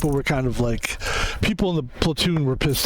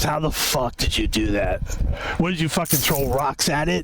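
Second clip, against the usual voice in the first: a hint of a lower, berating drill sergeant voice; imitating drill instructor; 3 semitones lower than usual. Drill instructor berating the recruit at the range, lightly imitated lower voice. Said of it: "he talked like this".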